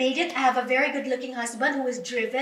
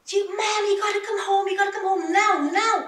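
urgent, higher-pitched mock scream; panicked helper's cry, re-enacted; retold screaming; 5 semitones higher, faster than usual. Nanny calling her employer home, screaming. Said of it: "was screaming".

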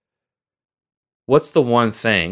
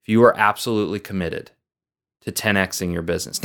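quick restatement; faster than usual. Shown as a demonstration. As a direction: toss the question off again quickly. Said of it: "here's the question".

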